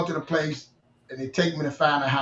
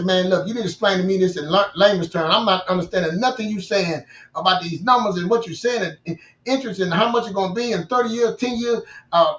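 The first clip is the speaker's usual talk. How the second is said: frustrated; 3 semitones higher than usual. Retold or imitated. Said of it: "I'm getting mad".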